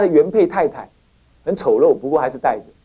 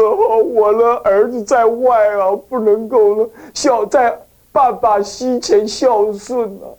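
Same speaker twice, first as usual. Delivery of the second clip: mock tearful; 2 semitones higher, slower than usual. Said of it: "我就说就哭了".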